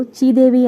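"చీదేవి" with chee in place of sree; distorted name. A narrator's reading. Subbaraju mangles Sridevi's name, saying "చీదేవి" with a chee. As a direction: turn the opening of "చీదేవి" into a chee sound. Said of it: "ఆ పేరుని వికారం".

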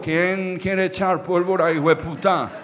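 lightly voiced drunken father; drunk dad. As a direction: imitate a boozy old man offering fun. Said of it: "El cucho llegaba borracho".

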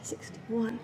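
breathless whispered counting; doing push ups. Real, not acted. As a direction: gasp out each rep count.

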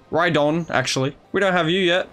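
ordinary talk

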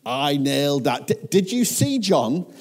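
high, loud, triumphant crowing; jubilant boasting. Acted. Believer boasting to John after doing what God asked, jubilant. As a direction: crow over your own success, pitch soaring. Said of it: "it's amazing and you're like".

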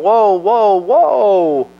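loud, high whoa; calling a halt to a doom prophet; stopping him. Retold or imitated. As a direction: rein in a ranting man. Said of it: "And it's like".

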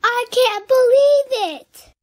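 joyful, drawn-out proclaiming; amazed proclamation. A narrator's reading. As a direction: burst out in delighted disbelief. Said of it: "Invisible proclaimed".

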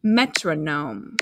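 metronome said slowly and clearly. Shown as a demonstration. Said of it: "Say metronome".

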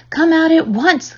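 high, slow stern command; cried order. A narrator's reading. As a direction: order a child out sharply. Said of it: "cried Missus Arable".

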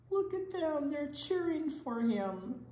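high excited exclaim. Real, not acted. Teacher showing kids the cheering class, high excited. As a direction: share the crowd's joy. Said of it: "excited about cheering".

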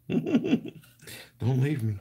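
very high, laughing whine on "Don't"; mock pleading squeak. Crafter joking with viewers about separation anxiety, squeaky plea. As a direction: squeak it like a needy child. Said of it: "I have separation anxiety".

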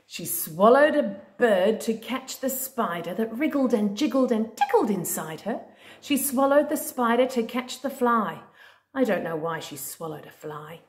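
singsong storybook read-aloud; reading to a toddler. Acted. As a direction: read it like a bedtime book. Reading a picture book to a child.

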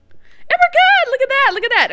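high, loud burst of relief; excited cheer. Real, not acted. Player cheers making the sprint jump, excited cheer.

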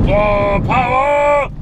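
high, thrilled cry of power; excited shout. Real, not acted. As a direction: yell it out with glee.

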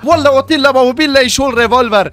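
jealous husband's hammed-up outburst; comic rage. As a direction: blow up at the rival, hammed-up. Jealous outburst, fetching revolver.

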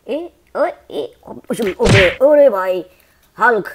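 loud hey calling out to a toy; loud mock call-out. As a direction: shout to get his attention. Calling out to fighting Hulk.

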